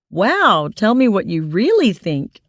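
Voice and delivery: dry sarcastic snipe; sniping. Acted. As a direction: snipe back with mock offence. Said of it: "I snipe".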